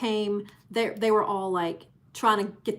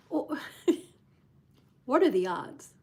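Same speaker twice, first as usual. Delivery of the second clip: laughing disbelief; 4 semitones higher than usual. Retold or imitated. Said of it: "But I just thought".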